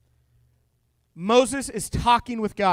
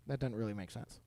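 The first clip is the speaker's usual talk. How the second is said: mock leaders' voice; 13 semitones lower, 18 dB quieter, faster than usual. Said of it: "they're like".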